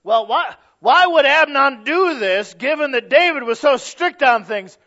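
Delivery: loud, high incredulous objection; questioning listener. Retold or imitated. Someone questioning the preacher about David, loud and disbelieving. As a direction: push back like a doubter. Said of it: "I brought that up to somebody".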